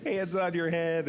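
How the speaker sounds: imitating a shouted police command; mild mock yell. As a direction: bark it like an officer, half in jest. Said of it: "they're screaming at me".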